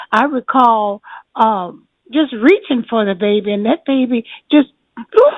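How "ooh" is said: high, quick "ooh" of a swoop. Retold or imitated. Showing the baby coming right over, high ooh. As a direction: imitate a sudden move with a high ooh.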